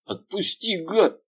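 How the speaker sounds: high, whimpering cry; tearful voice. A narrator's reading. Bodyguard in pain begs the detective, tearful. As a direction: plead near tears. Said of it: "плачущим голосом подтвердил Гриня".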